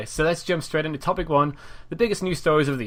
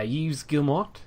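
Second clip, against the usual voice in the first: French accent; 2 semitones higher, slower than usual. Shown as a demonstration. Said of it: "that is a good French accent".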